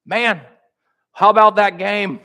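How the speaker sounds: high, loud chummy banter; hammed-up casual small talk; mock casual small talk. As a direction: play a buddy chatting about the game. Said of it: "Jesus doesn't begin those conversations with".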